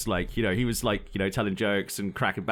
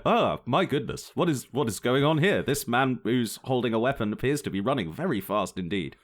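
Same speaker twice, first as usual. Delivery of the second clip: put-on British accent. Onlookers react to the sprinting gunman in a mock British accent. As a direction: lightly imitate a British onlooker. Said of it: "Why did you give him a British accent?".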